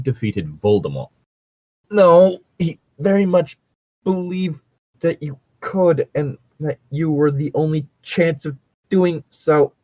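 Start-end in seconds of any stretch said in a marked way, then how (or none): 1.9-9.7 lightly voiced Dumbledore. Reading fanfic aloud, mild Dumbledore voice correcting Harry. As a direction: answer back as the old headmaster, a touch higher.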